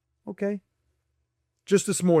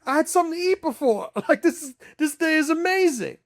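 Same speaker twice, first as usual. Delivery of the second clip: far higher, squeaky hammed-up glee; mock ecstatic guy; 13 semitones higher, 3 dB louder than usual. Mocking a man thrilled just to wake up, far higher and squeaky. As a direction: shriek it like an overexcited fool. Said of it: "It's like".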